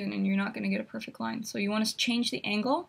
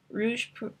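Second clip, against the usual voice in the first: clumsy attempt at a French accent; halting, self-mocking French pronunciation; bad French accent; slower than usual. Shown as a demonstration. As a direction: say it slowly in a poor French accent. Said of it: "my really bad French accent".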